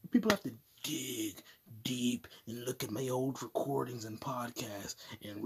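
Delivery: whispering. Acted. Unvoiced whisper.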